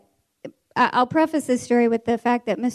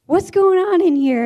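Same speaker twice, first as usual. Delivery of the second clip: raised, louder authority voice; stern demand; 7 semitones higher, 5 dB louder than usual. Retold or imitated. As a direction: imitate a teacher breaking up trouble. Mister Jones bursts in on the fight.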